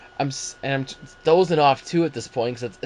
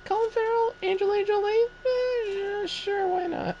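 sarcastic. Acted. Mocking the casting.

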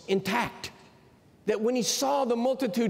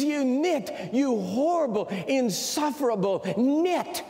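hammed-up insulting clerk; 5 semitones higher than usual. Python insulter hurls insult.

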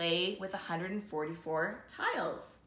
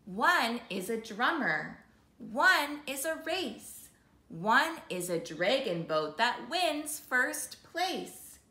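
lilting read-aloud rhythm; reading to children; 2 semitones higher, 3 dB louder, slower than usual. Acted. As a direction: read the rhymes with a gentle bounce. Reads picture book aloud.

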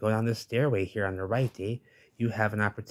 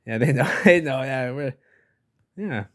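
laughing shark voice; 4 semitones higher, 8 dB louder than usual. Acted. Voicing the sharks.

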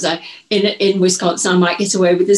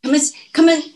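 soothing mock carer; 5 semitones higher, faster than usual. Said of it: "I would say".

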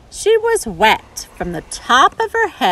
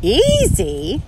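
calling out; 7 semitones higher than usual. Acted. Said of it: "called out a butterfly".

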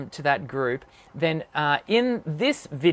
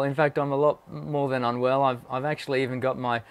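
feeling sick; 5 semitones lower than usual. Real, not acted. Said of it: "I'm a little unwell".

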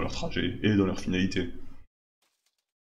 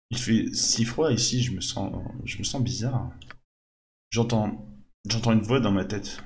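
slow, hushed, growing unease; a frightened worker going under; uneasy and hushed; 4 dB quieter than usual. Acted. Worker falls under a voice's spell.

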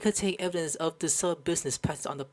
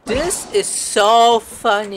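amused; 3 semitones higher, 8 dB louder, much slower than usual. Real, not acted. Streamer laughing at own joke.

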